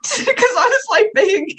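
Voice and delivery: high laughing through the words; breaking into giggles mid-sentence. Real, not acted. Laughing while retelling.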